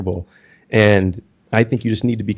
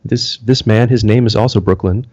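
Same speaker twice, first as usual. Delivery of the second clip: mock public-radio host, measured and earnest; soft-spoken educated host parody; soft, thoughtful radio voice. Shown as a demonstration. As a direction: lightly parody a thoughtful artisanal radio show. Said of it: "way of speaking that's very soft and very thoughtful".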